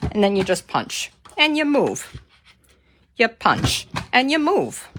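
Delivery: loud, peppy workout chant; aerobics instructor. Acted. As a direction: call it out like leading a fitness class. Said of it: "Do I sound like an aerobics instructor?".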